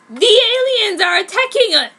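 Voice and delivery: high, loud scream. A narrator's reading. Ryo bursts in warning of aliens, screaming. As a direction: yell the alarm at full voice.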